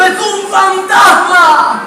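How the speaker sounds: mock fearful cry. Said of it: "Alguien gritó y dijo".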